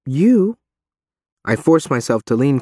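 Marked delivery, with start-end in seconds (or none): 0.1-0.6 higher pressing question; Reeve's voice. A narrator's reading. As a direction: press him, voice raised.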